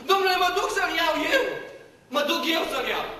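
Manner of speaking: bursting with eager resolve; eager Mary. Acted. Mary tells the gardener she will fetch him, eagerly.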